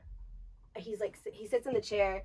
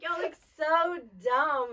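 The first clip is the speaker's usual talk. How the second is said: mocking; 5 semitones higher, much slower than usual. Mocking acted thought, slowed.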